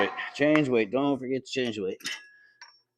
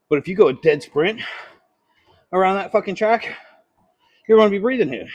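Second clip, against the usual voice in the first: louder and higher on the sprint; emphatic; 7 semitones higher, 6 dB louder than usual. Real, not acted. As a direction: build it up with emphasis. Contrasting walking with sprinting.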